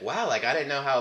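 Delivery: put-on light Jamaican accent, casual; a hint of Jamaican lilt. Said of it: "like, in a Jamaican accent".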